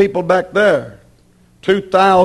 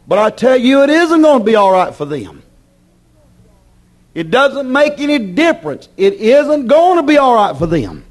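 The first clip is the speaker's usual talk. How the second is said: raised, insistent pulpit warning; emphatic preaching; 6 semitones higher than usual. Acted. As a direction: warn the congregation firmly, pitch lifted.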